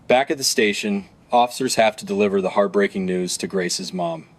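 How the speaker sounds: steady true-crime narrator voice; documentary narration. Acted. Narrator guiding viewers through the arrest, documentary narration. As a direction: narrate the case evenly for viewers.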